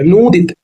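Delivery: नूदित with a long, held "noo"; drawn-out long oo. Shown as a demonstration. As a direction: stretch the first vowel of नूदित. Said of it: "खींच के बोलते हैं".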